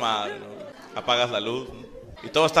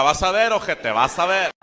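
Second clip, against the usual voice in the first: mock threat; 3 semitones higher, 5 dB louder than usual. Dad threatening baby.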